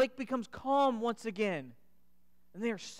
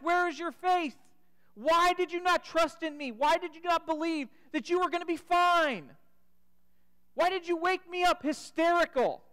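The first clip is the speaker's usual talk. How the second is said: higher, earnest questioning; pleading challenge; 5 semitones higher than usual. Retold or imitated. Jesus challenges his panicked disciples, earnest and higher. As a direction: press them with a searching question. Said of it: "Jesus asks".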